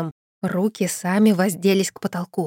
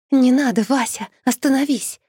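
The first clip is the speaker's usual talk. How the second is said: high, loud pleading shout; scream; 6 semitones higher, 4 dB louder than usual. A narrator's reading. Yulia grabs Vasya mid-curse, loud high pleading shout. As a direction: yell right into her ear to stop her. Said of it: "завопила она в самое ухо".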